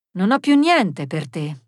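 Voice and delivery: slow, dry refusal; reply drily and firmly; measured, terse brush-off; curt. Acted. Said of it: "rispose secco Cesare Bernardi".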